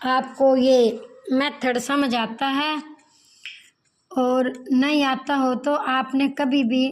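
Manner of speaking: slow, unhurried. Real, not acted. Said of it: "मैं धीरे धीरे ही बोल रही हूँ".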